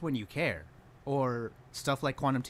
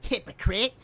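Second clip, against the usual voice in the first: high, loud and drawn-out accusation; raised-voice, outraged jab; indignant callout; 12 semitones higher, 6 dB louder, slower than usual. Real, not acted. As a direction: hammer the charge home slowly. Calls out the video's hypocrisy.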